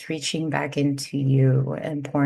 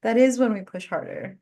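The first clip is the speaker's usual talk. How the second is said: retold urgent pep talk; 7 semitones higher than usual. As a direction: push her friend hard not to quit. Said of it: "And I was like".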